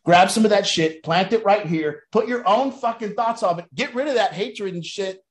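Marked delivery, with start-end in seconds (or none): 0.0-3.2 louder, punched out on grab; loud command. Shown as a demonstration. Urging recovering addicts to take ideas, loud and forceful. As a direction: push it at them like an order. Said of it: "throw information against the wall and say".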